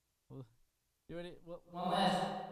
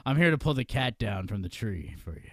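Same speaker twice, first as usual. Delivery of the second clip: mock cute superhero; 5 semitones lower, 3 dB louder than usual. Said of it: "a cute superhero".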